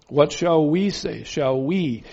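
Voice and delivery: "we" stressed and drawn out with falling pitch. Shown as a demonstration. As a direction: lean on the word "we" and let it fall. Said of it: "You notice this word "we".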